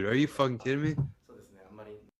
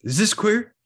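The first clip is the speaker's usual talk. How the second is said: mock flamboyant; 10 semitones higher, 6 dB louder than usual. Mock campy question.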